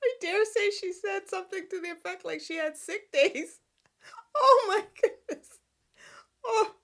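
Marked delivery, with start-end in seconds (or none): 4.4-6.7 loud, high laughing exclamation. Real, not acted. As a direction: burst out laughing. Laughing at the sick days.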